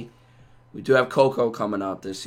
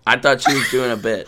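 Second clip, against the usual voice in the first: laughing; 3 semitones higher, 6 dB louder than usual. Real, not acted. Laughing at the outro mix-up.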